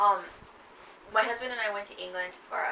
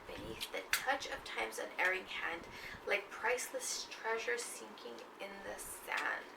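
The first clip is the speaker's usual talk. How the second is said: slow, hushed recital fading out; poem reading; 3 dB quieter than usual. Acted. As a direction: read it darkly and slowly, trailing off. Rereads final stanza.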